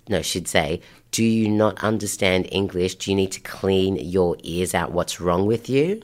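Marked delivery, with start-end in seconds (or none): 1.1-6.0 pointed rebuke, slowing down at the end; fierce mum. Retold or imitated. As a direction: lightly imitate an indignant mother telling someone off. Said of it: "big impact on the fierceness".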